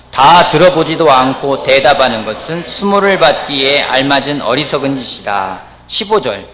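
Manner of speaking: slow, measured read-aloud of Bible verses; scripture reading. Real, not acted. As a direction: lead the congregation through the verse, loud and deliberate. Leads congregation reading scripture.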